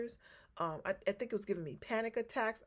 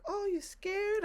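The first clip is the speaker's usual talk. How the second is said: higher, mock-sweet teasing question; teasing therapist; 12 semitones higher, slower than usual. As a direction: tease her gently like the therapy lady. Lady teasing her fear.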